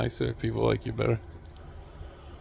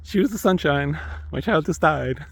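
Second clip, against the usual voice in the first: higher, louder mock sobbing parent; hammed-up grief; 6 semitones higher, 5 dB louder than usual. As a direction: overdo the grieving mother, loud and high. Mocking a grieving parent.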